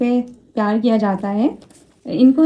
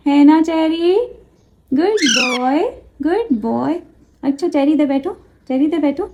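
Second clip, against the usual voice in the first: 1 cooing to the parrot; 4 semitones higher than usual. Acted. Praising parrot.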